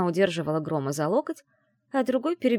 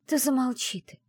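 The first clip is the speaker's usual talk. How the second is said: snapping; 7 semitones higher than usual. A narrator's reading. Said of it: "пихнула в бок".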